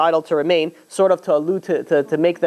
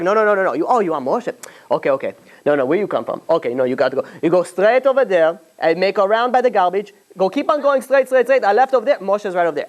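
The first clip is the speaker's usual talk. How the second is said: put-on higher, teasing kid voice; playful directions; 4 semitones higher than usual. Children sending Pharaoh the wrong way, teasing and higher. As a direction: pile on the wrong turns, gleeful.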